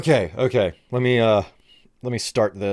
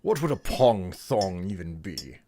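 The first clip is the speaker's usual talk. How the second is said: put-on British accent. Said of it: "various British accents".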